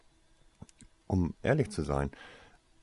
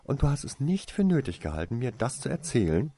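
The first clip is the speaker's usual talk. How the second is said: fast, high and loud, telling him off; indignant outburst, rushed and raised; snapping angrily; 7 semitones higher, 5 dB louder than usual. A narrator's reading. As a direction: lash out at him, hurt and angry. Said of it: "fuhr sie ihn an".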